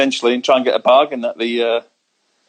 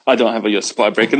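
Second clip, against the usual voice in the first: quick retraction through a laugh, a bit faster; faster than usual. Real, not acted. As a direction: laugh it off as you take it back. Laughs while retracting the claim.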